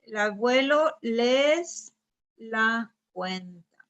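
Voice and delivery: el abuelo les la cuenta pieced together slowly; slow, tentative trial of el abuelo les la cuenta; slow build-up. Shown as a demonstration. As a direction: work it out word by word, slowly. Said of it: "cómo le podemos reemplazar aquí el abuelo".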